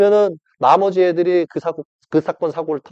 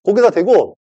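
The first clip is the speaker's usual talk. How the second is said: ordinary talk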